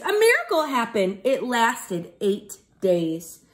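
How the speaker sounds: put-on lively sing-song read to children; bouncy rhyming story voice for kids; storybook narration. A narrator's reading. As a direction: read it like a rhyming picture book to a class. Teacher reads rhyming storybook.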